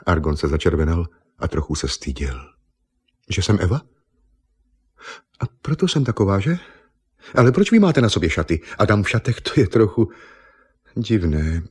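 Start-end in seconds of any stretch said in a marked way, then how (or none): 3.3-11.6 higher, lightly voiced surprised girl; a hint of a flustered young woman finding herself naked; startled young woman. Naked Eva startled at the painter, a touch of flustered surprise.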